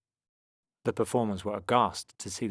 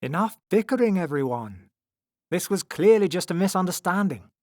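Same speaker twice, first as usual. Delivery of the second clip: high, raised plea for quiet; gentle pleading; 9 semitones higher, 7 dB louder than usual. A narrator's reading. Strong man calms the quarrel, pleading gently. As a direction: plead with them to settle down. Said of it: "pleaded for quiet with his gentle voice".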